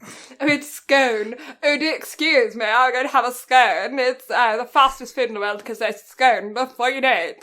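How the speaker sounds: plummy mock-aristocrat voice; posh British. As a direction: ham up a snooty Brit ordering tea. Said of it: "Do you know how posh you sound?".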